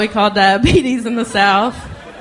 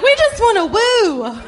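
mock partying crowd; 11 semitones higher than usual.

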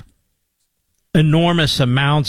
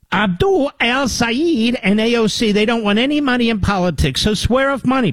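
mocking; 6 semitones higher than usual. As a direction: sneer at their pledge. Mocking opponents' stance.

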